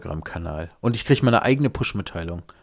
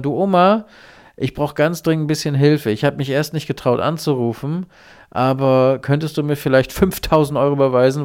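higher, louder, wheedling fake grandson; pleading scam caller; 4 semitones higher, 4 dB louder than usual. Scammer begging grandma for ransom money, higher and louder. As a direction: coax her for the money, pitched up. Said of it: "Und dann sagt derjenige".

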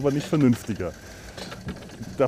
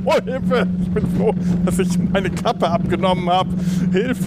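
sledding downhill; 5 semitones higher than usual. Real, not acted. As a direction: squeal for help playfully.

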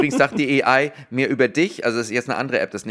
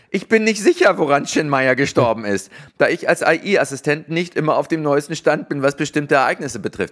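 AI assistant voice; 2 semitones higher, 3 dB louder than usual. Retold or imitated. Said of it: "da sagt die A I".

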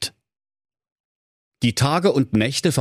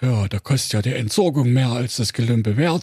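grateful. A narrator's reading. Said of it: "dachten die drei elektrischen Brüder dankbar".

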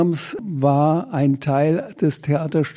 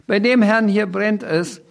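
higher, thrilled announcement; gleeful call; 7 semitones higher than usual. Acted. Sams points at the manager, gleeful call. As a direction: point him out with delight. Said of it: "schrie der Sams begeistert".

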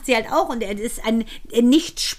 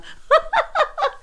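high laugh. Real, not acted. Laughs at affair joke.

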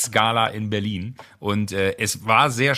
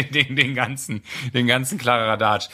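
usual speaking voice

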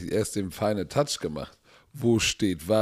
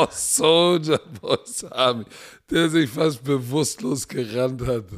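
excited shoutout; 5 semitones higher, 5 dB louder than usual. Real, not acted.

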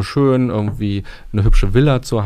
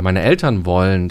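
"Eltern" emphasised, the rest lower; stress on ELTERN; 4 semitones lower than usual. Shown as a demonstration. Coach listing what parents want, stress on "Eltern". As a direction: punch "Eltern" as the contrast. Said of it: "wenn ich das nochmal so betone".

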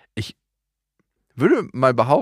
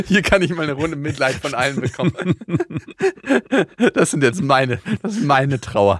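laughing mock self-pity; 3 semitones higher than usual. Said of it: "du, du".

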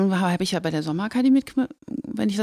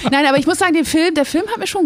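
laughing; 7 semitones higher, 4 dB louder, faster than usual. Real, not acted. Laughing still.

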